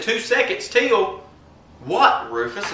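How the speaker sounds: slow, high mock neighbor voice; Jarney. Neighbor questioning Rufus's threat, slow high mock voice. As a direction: echo it back high and drawn out. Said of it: "this is my impression of him".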